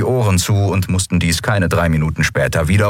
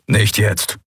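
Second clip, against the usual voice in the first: short, understated growled refusal with weight on nicht; a touch of a growl on "Nicht jetzt"; mild growl; 2 semitones higher than usual. Acted. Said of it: "knurrte Kero".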